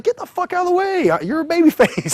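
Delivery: high, loud mock-angry order; imitating a wrestler shouting someone aside; retold yell. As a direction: exclaim it urgently at high pitch. Intruder ordering him aside in ring.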